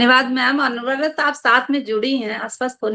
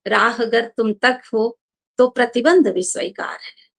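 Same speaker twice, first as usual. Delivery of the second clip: poem recitation. Acted. Recites her muktak.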